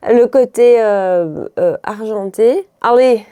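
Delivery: playful put-on Brussels accent; accent de Bruxelles. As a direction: lay on a light Brussels accent. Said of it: "ça c'est plus de Bruxelles". (petit accent bruxellois pour rire)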